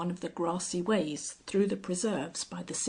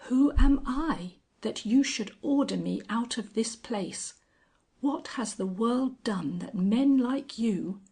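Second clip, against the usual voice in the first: indignant; 4 semitones higher, 4 dB louder than usual. Acted. Angel's rising indignant outburst.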